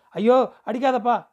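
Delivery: high, loud frightened plea not to be hit; terrified cry. Acted. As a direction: cry out like a beaten girl. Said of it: "என்று அலறிற்று". (பயந்து அலறும் குரல்)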